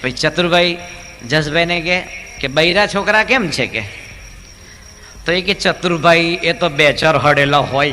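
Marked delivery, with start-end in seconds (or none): 2.5-3.7 deaf man's loud question. Retold or imitated. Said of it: "બેરા માણસની". 5.5-7.9 slow, louder reply; deaf man's loud answer. Retold or imitated. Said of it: "બેરા માણસની".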